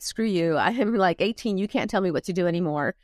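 defiant, quickening at the end with a laugh; teen throwing off her father's rules, mock defiant; rebellious teen. Teen daughter snapping back at controlling father, mock defiant. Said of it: "I, I rebelled".

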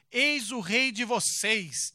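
loud, slow proclamation; proclaiming. Acted. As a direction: announce it slowly to the crowd. Pilatos presenting Jesus to the crowd.

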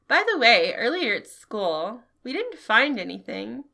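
lightly voiced grumpy old man; a hint of a cranky grandpa. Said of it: "That's the best old man voice I have".

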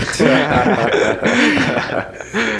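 loud high burst of laughter; laughing. Real, not acted. Laughs at own example.

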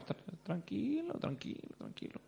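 soft, slow hushing, fading to a whisper; calming hush. Retold or imitated. Dad hushing the stranger to calm down, fading whisper. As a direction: hush him down gently, trailing off.

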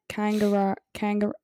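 tentative Australian "kangaroo"; Australian accent attempt. Shown as a demonstration. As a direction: test out an Australian accent on the word. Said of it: "Australian's a bit hard".

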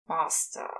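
unvoiced, under the breath; muttered curse, whispered; grumbled. A narrator's reading. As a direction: grumble it to yourself. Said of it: "Crowley grumbles to himself".

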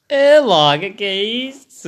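surprised. Real, not acted. Shocked reaction to sex question.

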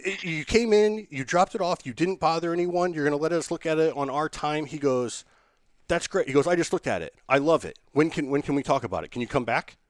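a lightly voiced overexcited boss; excited Warner. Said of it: "He's like, he's like".

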